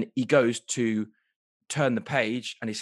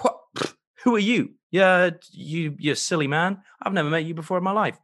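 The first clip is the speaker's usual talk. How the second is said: higher, dismissive put-on Ursula; 4 semitones higher, 4 dB louder than usual. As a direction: brush him off, louder. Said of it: "is like".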